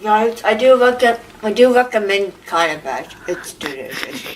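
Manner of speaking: talking through food; mouth full. Real, not acted. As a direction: speak around a mouthful. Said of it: "talking with your mouth full".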